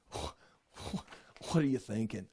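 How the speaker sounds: low, slow scoff under the breath; slow, disbelieving put-down; indignant snort. Retold or imitated. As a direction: scoff as if it's beneath you. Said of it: "it expresses a snort with indignation".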